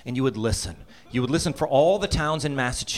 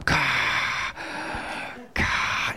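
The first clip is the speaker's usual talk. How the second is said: heavy breathing. Retold or imitated. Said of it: "wake us up with his breathing".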